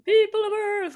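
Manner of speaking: high, loud alien overlord voice; booming arrogant alien overlord. Pretend. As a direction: boom it out to the earthlings. Echoes the alien greeting.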